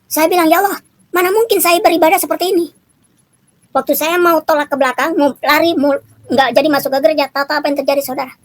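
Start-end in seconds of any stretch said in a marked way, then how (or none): 0.5-2.7 higher, quick startled cry to God; shocked exclamation. Retold or imitated. Recalling the shock on entering the church, startled cry. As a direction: blurt it out in disbelief. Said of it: "Kaget saya".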